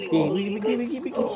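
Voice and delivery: very loud, high-pitched repeated yell; alarmed high holler; urgent shouting. Acted. Captors react to captive's shout.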